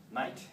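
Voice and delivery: "mate" with the vowel of "might"; Australian pronunciation. Shown as a demonstration. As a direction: say "mate" like "mite". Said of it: "in Australia, man is used as".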